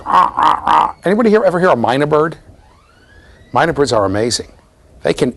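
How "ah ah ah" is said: short repeated mock parrot squawks; parrot squawk imitation. Shown as a demonstration. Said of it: "a parrot always sounds like this".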